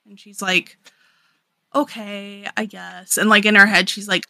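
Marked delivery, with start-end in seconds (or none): 1.7-3.2 soft, grudging retold concession; small-voiced imitation of giving in; reluctant mock agreement. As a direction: give in quietly and unconvinced. Retold princess reluctantly gives in.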